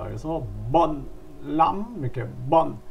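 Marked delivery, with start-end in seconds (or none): 2.5-2.8 "bận" with an "eo"-like vowel, not "a". Shown as a demonstration. Teacher shows students the hooked-A sound, "bận" said with an "어" vowel. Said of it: "어로 발음하는 겁니다".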